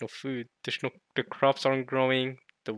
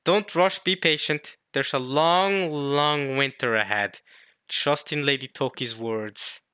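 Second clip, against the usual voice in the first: raised opening, settling as it goes; lightly acted manga speaker; 3 semitones higher, 4 dB louder than usual. Telling people to wait for winter's end, lightly acted. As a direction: counsel patience with a hint of drama. Reads manga character's lines.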